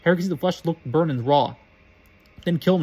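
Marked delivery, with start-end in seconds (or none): 2.4-2.8 loud, piercing order; shriek. Acted. Voldemort shrieking at Quirrell to kill Harry, loud. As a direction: shriek the command. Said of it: "shrieked Voldemort".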